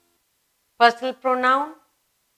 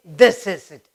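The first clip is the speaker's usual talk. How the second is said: louder, punched statement; emphatic exclamation; 8 dB louder than usual. Shown as a demonstration. Teacher demoing emphasis to pupils, loud and punchy. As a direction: say it like you mean it. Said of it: "You want to say".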